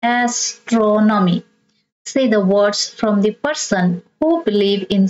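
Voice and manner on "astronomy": Astronomy drawn out, stress on TRON; slow model of Astronomy, leaning on as-TRO-nomy; third-last syllable stressed. Shown as a demonstration. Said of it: "Stress the third syllable from the end".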